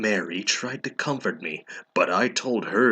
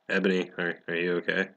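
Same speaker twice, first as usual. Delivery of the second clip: a touch softer and lower, gently asking; concerned; 3 semitones lower, 5 dB quieter, faster than usual. Acted. Bloody Mary checks on crying Ebony, mildly concerned. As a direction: ask like a worried friend. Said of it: "asked in a concerted voice".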